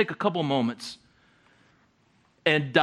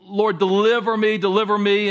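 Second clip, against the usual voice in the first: mild cry to God; 4 semitones higher, 4 dB louder than usual. Acted. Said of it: "crying out".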